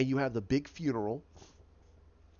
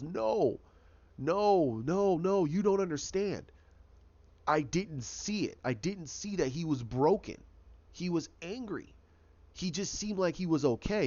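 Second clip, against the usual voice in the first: a hint of anguished protest, pitched higher; distraught denial; 4 semitones higher than usual. Richard blaming himself for Bruce's death, higher and mildly anguished. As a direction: Richard insisting he should have seen it, pitched a little higher in mild anguish.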